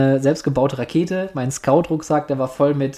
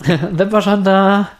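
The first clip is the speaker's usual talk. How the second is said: put-on high, slow whiny child; child begging; 5 semitones higher, 4 dB louder, slower than usual. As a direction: whine like a bored kid in the back seat. Kids whining on rocket trip.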